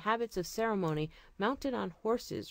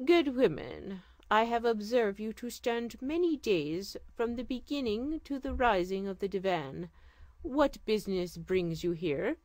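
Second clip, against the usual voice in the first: regal sultan; 2 semitones higher than usual. Acted. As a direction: speak as a gracious sultan. Sultan addresses the old woman.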